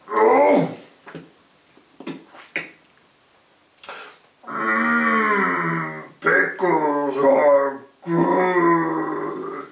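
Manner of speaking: loud, very slow savoring goblin; a fat goblin relishing pickles; greedy goblin. Acted.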